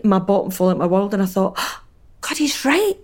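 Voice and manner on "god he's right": panicked realisation. Retold or imitated. Retelling her panicked realisation on air.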